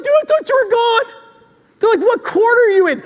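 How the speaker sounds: hammed-up bro quizzing him; mock jock question. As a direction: ask it like a nosy frat bro. Jocks asking his quarter.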